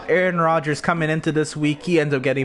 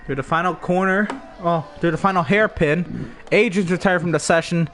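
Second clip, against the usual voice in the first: race commentary. Acted.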